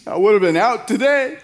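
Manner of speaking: punchline breaking into laughter; laughing punchline. Acted. Pastor landing the joke's punchline, laughing through it. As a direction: deliver it as you crack up. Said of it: "He goes".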